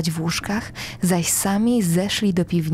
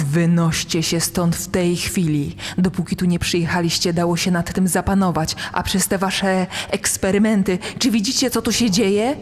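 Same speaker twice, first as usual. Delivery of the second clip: growing anger. Acted. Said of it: "coraz więcej nieposkromionej złości".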